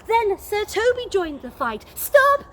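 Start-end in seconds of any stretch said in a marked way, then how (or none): 1.9-2.4 much higher, louder cry to halt. Acted. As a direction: shout to break up the fight. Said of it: "Olivia cried".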